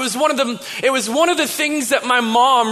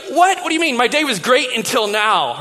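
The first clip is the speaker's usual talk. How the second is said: mock incredulous. Teenage son answering dad's awkward question, incredulous. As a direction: play an indignant teen taken aback.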